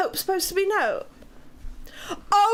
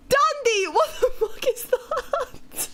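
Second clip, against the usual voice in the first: shocked outburst; 9 semitones higher than usual. Real, not acted. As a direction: blurt it out in disbelief. Shocked at chat message.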